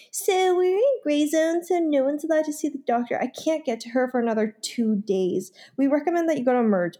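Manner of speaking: a light take on the prim receptionist. Retold or imitated. Receptionist voiced in retold story.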